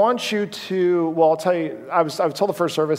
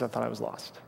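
put-on soft, hushed retelling of a scared boy; much softer, small broken voice; devastated child; 4 semitones lower, 11 dB quieter than usual. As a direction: say it quietly like a frightened child. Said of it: "he was so freaked out and sad".

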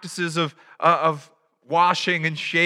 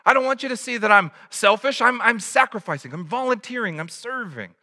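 mock defensive bragging; 6 semitones higher than usual. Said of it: "We're like".

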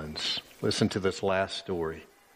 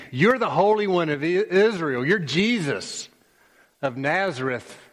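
a hint of a taunting demon, higher; 7 semitones higher than usual. Demons naming Jesus to master him, lightly voiced. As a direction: claim power over him by his name.

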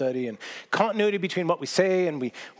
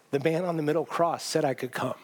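simple thief answer. Acted. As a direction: say it plainly, like a child's honest reply. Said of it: "Thief simply looks up at him and says".

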